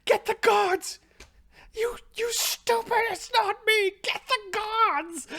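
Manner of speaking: furious high shriek; yelling at servants. Acted. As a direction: scream orders at a useless servant. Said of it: "she's yelling at the servant through your eyes".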